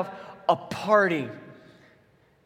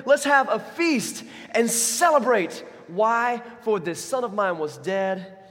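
much higher and louder, jubilant; joyful father; 4 semitones higher, 4 dB louder than usual. Acted. Father ordering servants to celebrate the son, jubilant. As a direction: call out the orders in delight.

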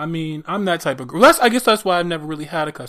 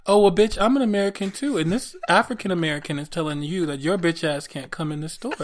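mock clerk. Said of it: "what would you have said?".

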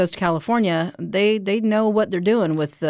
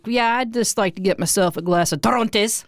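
put-on Midwestern accent; 4 semitones higher than usual. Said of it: "You just do straight Midwestern accent".

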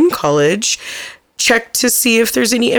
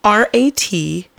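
spelled out slowly; slower than usual. Shown as a demonstration. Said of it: "Not ratchet".

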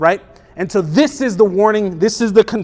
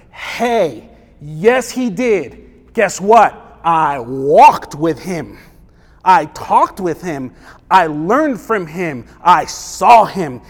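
John's testimony; much slower than usual. Retold or imitated. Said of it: "He's like".

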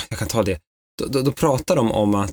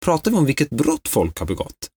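exasperated; 4 semitones higher than usual. Retold or imitated. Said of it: "Jag blev så irriterad".

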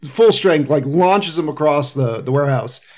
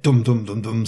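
low mimicked movie drumbeat; imitated theme sound; 4 semitones lower, 4 dB quieter than usual. Co-host imitating the Terminator sound, low drumming dums. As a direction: thump out a movie theme vocally. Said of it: "the little, like".

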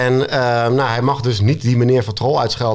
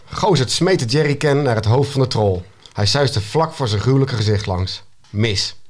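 measured read-aloud storyteller; story narration; 2 semitones lower than usual. A narrator's reading. Author reading an excerpt to the interviewers, story narration. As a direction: narrate the action evenly, pausing between sentences. Reads own book aloud.

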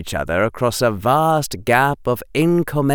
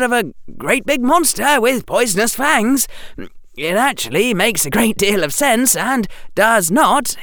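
put-on higher, brisk boyish Harry with sarcasm; young Harry voice; 10 semitones higher than usual. Harry answering the headmaster, higher and sarcastic. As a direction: voice Harry as a cheeky boy.

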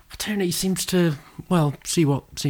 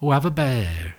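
Norfolk accent. Shown as a demonstration. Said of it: "speak in a Norfolk accent".

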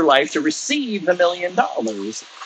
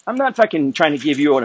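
scornful; 3 semitones higher than usual. Real, not acted. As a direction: sneer at the critic. Scornful reply to critic.

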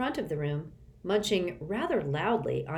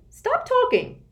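high, loud, slow snap; snapping; 8 dB louder, slower than usual. A narrator's reading. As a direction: snap at the boys. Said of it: "snapped the pencil woman".

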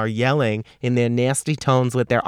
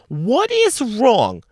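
grumpy rant; 6 semitones higher than usual. Real, not acted. Ranting at younger generation.

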